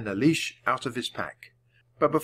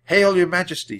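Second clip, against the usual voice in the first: Jack bowing; 7 semitones higher, 6 dB louder than usual. A narrator's reading. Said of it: "said Jack, bowing".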